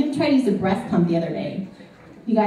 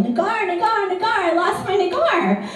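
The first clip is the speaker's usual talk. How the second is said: mock yelling; 10 semitones higher than usual. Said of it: "running down the beach yelling".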